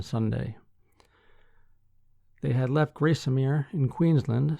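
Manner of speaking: measured newsreader delivery with firm sentence openings; news article read. Acted. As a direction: read the article out clearly to listeners.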